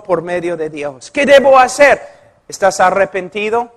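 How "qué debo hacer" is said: pleading woman. Retold or imitated. Woman repeats plea.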